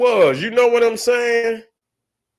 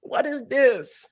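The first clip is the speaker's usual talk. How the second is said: retold disbelief; 5 semitones higher, slower than usual. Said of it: "I, I, I say".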